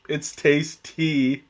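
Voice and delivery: "tasty" stretched slowly into two separate beats; "tasty" drawn out as a tea pun. Pretend.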